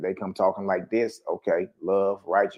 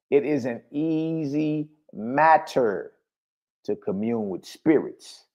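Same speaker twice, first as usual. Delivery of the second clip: slow reading; 3 semitones higher, slower than usual. Shown as a demonstration. Preacher reading scripture slowly, emphatically.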